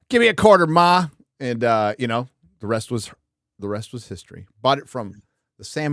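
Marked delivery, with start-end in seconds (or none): 0.1-1.1 put-on kid asking mom. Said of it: "and I'm like".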